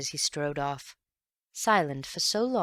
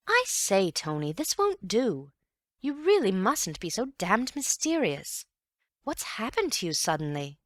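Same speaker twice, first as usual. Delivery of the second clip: annoyed; 5 semitones higher than usual. Acted. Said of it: "Bill was annoyed".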